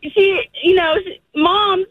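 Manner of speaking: crying. Real, not acted. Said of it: "I'm gonna get emotional".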